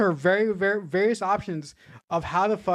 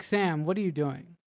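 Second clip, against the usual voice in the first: exasperated outcry. Retold or imitated. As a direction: beg the director to fix it. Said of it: "I was like".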